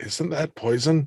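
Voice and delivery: soft, hushed half-whisper, kept private. Voicing a character who looks back at Callan: half-whispering in character. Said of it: "looks back at Callan and whispers".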